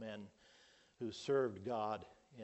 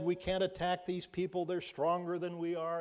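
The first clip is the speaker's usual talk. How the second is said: fearful spies; 6 semitones higher, 5 dB louder than usual. Acted. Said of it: "Ten of them said".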